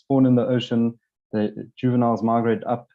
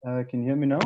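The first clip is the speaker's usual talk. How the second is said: headphones used as mic; 3 dB quieter, faster than usual. Real, not acted. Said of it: "I've got to speak through headphones".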